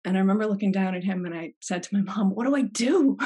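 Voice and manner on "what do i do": mock panic. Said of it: "Mostly mocking myself".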